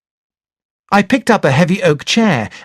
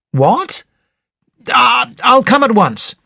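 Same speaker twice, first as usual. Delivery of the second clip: higher, shocked what; shocked disbelief; 9 semitones higher, slower than usual. Acted. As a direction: react as news sinks in. Told of the murder.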